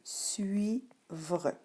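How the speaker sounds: "suivre" split slowly into sui-vre; syllable by syllable. Shown as a demonstration. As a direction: sound out "suivre" in two parts. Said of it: "Donc, tu pouvais lire".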